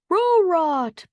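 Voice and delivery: high, loud dog-like bark; Scooby dog voice. Acted. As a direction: bark the word like a cartoon dog. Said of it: "barked Scooby".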